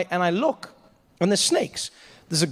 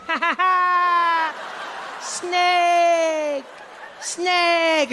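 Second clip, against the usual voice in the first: high, slow, shouted taunting laugh; mocking kid; 14 semitones higher, much slower than usual. Kid mocking the scared comic, high shouted laughing taunt. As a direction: cackle and shout snake at him. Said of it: "this kid's like".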